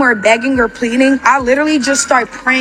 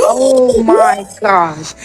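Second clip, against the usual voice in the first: slow, drawn-out disbelief; retold shock; much slower than usual. Woman retelling a gun pulled on her, stunned. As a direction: stretch out each word in mock shock.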